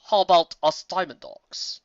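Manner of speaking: slow, rough offer; a diamond dog grunting his offer; gruff dog grunt. A narrator's reading. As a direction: grunt it out like a digger. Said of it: "Seeker grunted".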